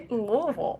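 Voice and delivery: Louisville as two syllables, LOH-vul; local pronunciation. Shown as a demonstration. Local answering the host, Louisville run together as LOH-vul. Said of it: "Is it Louisville or Louisville?".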